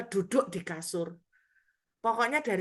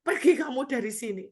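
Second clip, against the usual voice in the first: commanding rebuke; 5 semitones higher, 6 dB louder than usual. Retold or imitated. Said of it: "Saya bilang".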